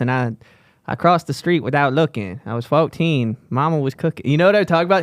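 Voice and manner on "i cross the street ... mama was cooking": a rapper voice impression. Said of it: "starts talking like this".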